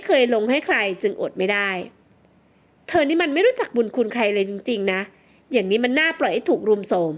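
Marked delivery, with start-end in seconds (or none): none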